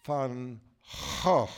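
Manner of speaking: Van Gogh slow and deliberate, Gogh with a throaty guttural G; Van pause Gogh, breathed from the throat; Dutch pronunciation. Shown as a demonstration. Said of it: "That's the correct way".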